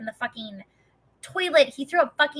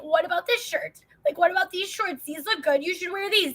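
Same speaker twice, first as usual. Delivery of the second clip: higher, coaxing husband; eager suggestions; 8 semitones higher than usual. Retold or imitated. Husband coaxing his depressed wife to dress, higher. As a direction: coax her into clothes. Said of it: "he'd be like".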